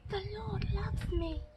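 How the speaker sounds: high, timid little bird voice; timid little robin. A narrator's reading. Shy robin testing his new words, timid high voice. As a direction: say it shyly, as a tiny bird trying his voice. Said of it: "timidly whispered".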